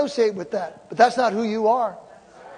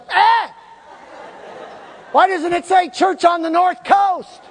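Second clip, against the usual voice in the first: mock outrage; 7 semitones higher than usual. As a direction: feign outrage at the billboard. Mock outrage at casino billboard.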